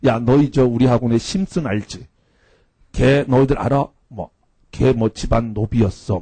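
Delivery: lightly imitated earnest teacher, low-key; deadpan, slightly low lecturing; mock-serious. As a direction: tell tall tales as if dead true. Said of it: "진짜 진지하게 이야기를 해요".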